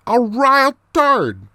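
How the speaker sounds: slow, high, relished mock Irish brogue; Irish accent. Man revealing what was in the loo, Irish accent. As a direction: draw it out high in broad Irish. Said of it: "more of this Irish accent".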